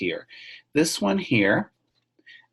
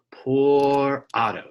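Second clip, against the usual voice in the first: sighing refrain; 4 semitones higher, 5 dB louder, much slower than usual. Shown as a demonstration. Teacher dwells on refrain.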